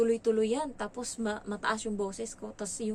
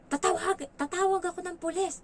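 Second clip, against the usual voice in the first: put-on child's threat; 10 semitones higher, 5 dB louder than usual. Child threatens to call police.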